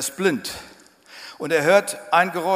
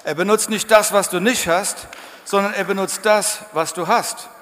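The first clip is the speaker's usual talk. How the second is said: repeated much louder, each phrase punched; emphatic repeat; 4 semitones higher, 6 dB louder than usual. Shown as a demonstration. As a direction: hammer the point home a second time. (lauter, nachdrücklich wiederholt)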